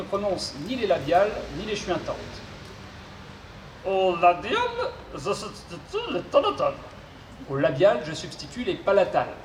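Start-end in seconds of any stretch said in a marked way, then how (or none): 3.9-6.7 robot voice with garbled consonants. Acted. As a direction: mangle the consonants like a glitchy robot. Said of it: "souffre d'une pathologie vocale".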